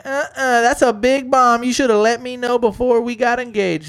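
high, loud sassy scolding; mock indignant scolding. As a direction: tell him off with sass. Girl scolding fiancé.

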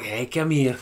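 laughing while calling out. Retold or imitated. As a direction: call the dog through a laugh.

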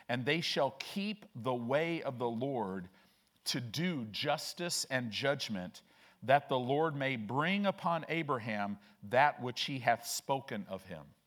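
slow, weighty Bible reading; measured pulpit reading with drawn-out phrases; scripture reading aloud. Real, not acted. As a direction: read the verse out deliberately, stressing key words.

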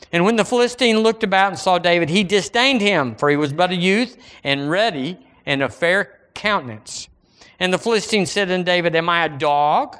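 scripture reading. Acted. Preacher reading David and Goliath to church, declaimed scripture. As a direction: read the verse out to the congregation.

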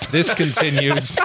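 measured, deadpan storyteller read; deliberate storybook delivery; story narration. A narrator's reading. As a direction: narrate a silly recap like a serious tale. Script narration.

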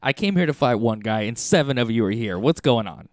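loud mock indignation; retold bewildered protest. Player facing seven orcs at once, bewildered protest. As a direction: protest the unfair odds, half joking. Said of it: "I was just like".

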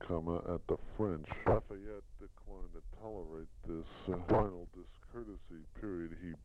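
reading text aloud with spoken punctuation; steady measured dictation to a secretary. Shown as a demonstration. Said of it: "That's the end of dictation".

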